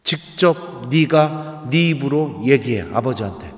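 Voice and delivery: slow, deliberate repeat of the mother's order; mother's firm urging. Retold or imitated. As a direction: spell it out slowly as a wise mother. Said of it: "지혜로우셨던 것 같아요". (천천히 또박또박 타이르는 엄마)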